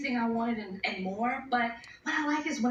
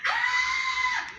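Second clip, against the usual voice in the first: starstruck shriek; much slower than usual. Retold or imitated. Mila Kunis spotting the interviewer, high excited squeal. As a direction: shriek her name like a thrilled fan. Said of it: "she goes".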